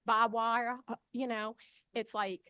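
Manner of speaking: nervous, hurried testimony; shaky with public speaking nerves; stage fright. Real, not acted. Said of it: "I'm nervous".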